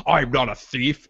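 lightly voiced slow, indignant denial; a hint of character voice, drawn out; imitating the Hound. Retelling a TV scene, mock-offended denial. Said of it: "he's like".

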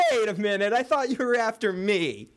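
high-pitched mock disbelief; imitated upset surprise. Host voices shocked Arya to Gold Cloaks, upset surprise. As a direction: retell it pitched high, as if taken aback. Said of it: "she's kind of almost upset".

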